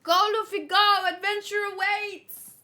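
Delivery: rally him on at full voice; cheering. Real, not acted. Cheering on running character.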